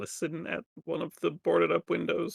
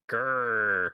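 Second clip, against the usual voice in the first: long mock growl; drawn-out growl in character; 2 semitones lower than usual. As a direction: growl along unhelpfully. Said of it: "just going".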